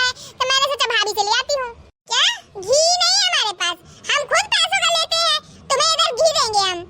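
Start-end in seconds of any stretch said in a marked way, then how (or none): 2.7-6.8 indignant refusal. Acted. Refusing neighbour ghee, scolding.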